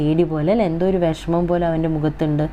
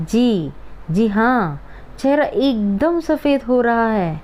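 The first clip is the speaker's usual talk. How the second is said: slow, drawn-out lesson reading, higher in places; dramatic reading; 4 semitones higher, much slower than usual. Acted. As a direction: read each phrase very slowly, savouring it. (ക്ലാസിൽ പാഠഭാഗം സാവധാനം നാടകീയമായി വായിക്കുന്നു)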